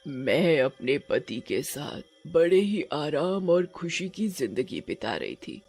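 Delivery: a touch of sorrow, subdued telling; sorrowful witch. Acted. Witch tells the couple her life story, mildly sorrowful. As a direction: recount the past with understated grief. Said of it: "चुड़ैल बड़े ही दुख के साथ अपनी कहानी सुनाती है".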